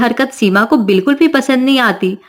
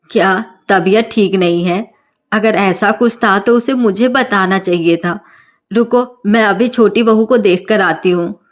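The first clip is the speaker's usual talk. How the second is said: suspicious mother-in-law; 3 semitones lower than usual. Acted.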